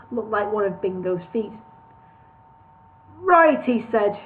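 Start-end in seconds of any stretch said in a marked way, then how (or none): 3.2-3.6 gravelly boss voice. A narrator's reading. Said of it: "his voice gravelly to the point of boulders".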